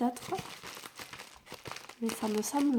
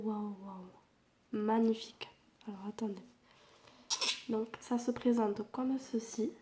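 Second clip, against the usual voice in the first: whispering; 3 dB quieter than usual. Real, not acted. Voice fails, talks in whisper.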